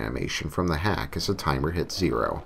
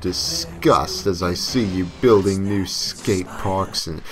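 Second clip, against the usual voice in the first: slow, louder, distorted devil voice; demonic voice; 2 semitones higher, 3 dB louder, slower than usual. Acted. The devil explaining Hawk's punishment, slow demonic voice. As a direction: lay out the cruel sentence with relish. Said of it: "The devil continued".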